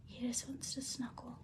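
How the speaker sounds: soft whisper while filming; whisper to the cat. Real, not acted. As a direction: hush it so the mic barely catches it.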